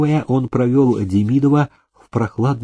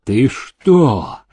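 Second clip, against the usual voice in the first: threatening; 3 semitones higher than usual. A narrator's reading. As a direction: hiss a real menace at her. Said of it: "пригрозил Демидов". (с угрозой)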